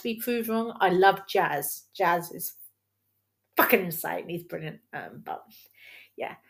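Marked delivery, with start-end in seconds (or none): none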